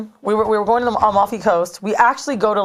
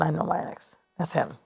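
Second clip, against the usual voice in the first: very soft retold aside; low, hushed certainty, acted out; hushed insistence; 3 semitones lower, 10 dB quieter than usual. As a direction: reenact insisting under your breath. Insisting privately to boyfriend it's him.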